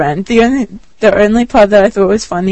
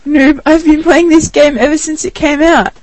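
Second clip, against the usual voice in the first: mocking noob voice; 7 semitones higher than usual. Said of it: "He goes".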